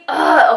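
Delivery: frustrated groan. Retold or imitated. Retold frustration, gives up.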